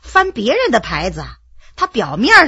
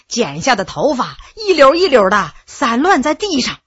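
usual speaking voice

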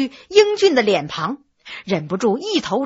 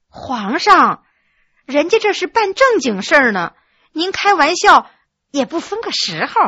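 pouting; 3 semitones higher than usual. Acted. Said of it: "故意撅着嘴儿说".

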